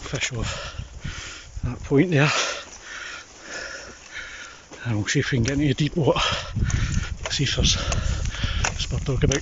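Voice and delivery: out of breath after the climb; winded, catching his breath; breathless whisper. Real, not acted. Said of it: "Sorry for being out of breath".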